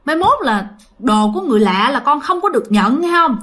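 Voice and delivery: mildly scolding mother; lightly acted telling-off of a child; retold scolding. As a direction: imitate a mother laying down a rule. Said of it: "mẹ của nó mới la".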